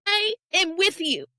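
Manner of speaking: pushing through the words while trying not to cry; fighting tears. Real, not acted. Telling the host about her husband, on the edge of tears. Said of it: "oh, I'm trying not to cry".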